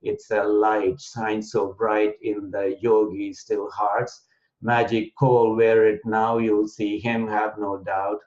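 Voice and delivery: measured, metrical verse reading; deliberate beat with a slight break after each phrase; anapest poem recital. Shown as a demonstration. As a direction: recite it in a poetic form, stressing every third syllable. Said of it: "in a poetic form, you will realize that Anapest meter".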